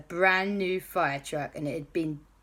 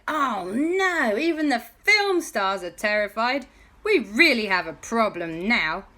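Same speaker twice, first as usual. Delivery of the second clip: higher, alarmed voices; worried crowd; 4 semitones higher, 4 dB louder than usual. Acted. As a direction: fret at the chaos. Crowd sees stars flee.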